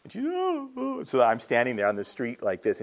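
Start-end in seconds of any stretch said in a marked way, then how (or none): 0.2-1.0 high, drawn-out mock sobbing "oh"; high retold wail of someone overcome; imitated tearful wail. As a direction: imitate a girl bursting into tears. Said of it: "she's just in tears".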